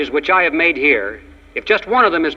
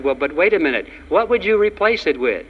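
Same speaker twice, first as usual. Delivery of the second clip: weak voice; 3 semitones higher than usual. Retold or imitated. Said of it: "with a weak voice".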